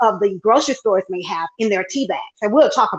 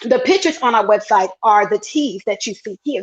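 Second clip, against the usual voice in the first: ordinary talk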